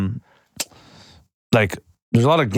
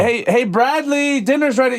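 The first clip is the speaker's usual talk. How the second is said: mom calling dinner; 9 semitones higher than usual. Retold or imitated. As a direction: call your son to dinner like a sweet mom.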